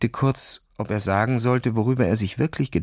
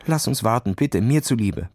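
worried plea. Acted. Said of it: "bat Nils besorgt".

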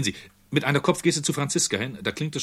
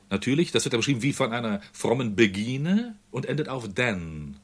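ordinary talk

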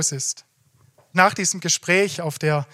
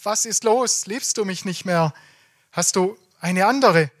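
mildly acted, higher-pitched pressing questions; insistent questioning; 4 semitones higher than usual. Fiancée presses groom for the reason, insistent. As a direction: press for an answer, voice lifting. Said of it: "sie lässt nicht locker und fragt wieder".

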